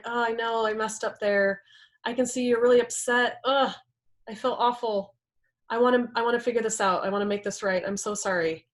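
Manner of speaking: remorseful apology, settling down at the end; lightly acted kind, understanding reply; calm and kind. Driver apologizing to the upset partner, calm and kind. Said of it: "you're calm and you're kind".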